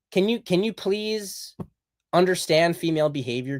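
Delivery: exasperated plea. Real, not acted. Speaker appealing to conservative men, exasperated plea.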